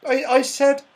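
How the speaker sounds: loud, exasperated repeat; high, loud shout at a deaf friend. A narrator's reading. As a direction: shout it so a deaf man hears. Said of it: "shouted Silky".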